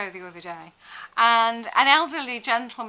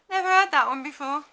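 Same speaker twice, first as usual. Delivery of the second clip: sarcastic reply; 4 semitones higher than usual. Retold or imitated. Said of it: "then you go back".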